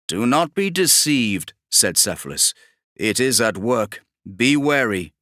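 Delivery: lightly voiced warning psyker. Cephalus warns Kravarek about the demon, with mild grave caution.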